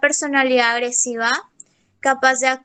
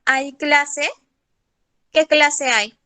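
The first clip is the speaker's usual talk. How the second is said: "¿Hay clase?" asked with a questioning tune; curious questions, a touch raised; question intonation; much slower than usual. Shown as a demonstration. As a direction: ask "¿Hay clase?" and "¿Qué clase hay?" as real questions. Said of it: "la entonación interrogativa".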